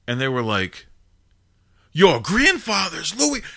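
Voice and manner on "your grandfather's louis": higher, slow, stunned mock disbelief; amazed question. The mobsters, stunned to hear his grandfather's name, amazed. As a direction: stretch it out in disbelief.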